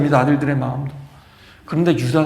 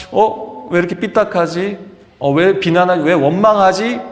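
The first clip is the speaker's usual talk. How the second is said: mildly acted irritated muttered questions, raised in pitch; indignant questioning; 3 semitones higher, 4 dB louder than usual. People reacting to a resentful relative, acted indignant questioning. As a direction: demand why, growing louder. Voicing people annoyed at the complainer.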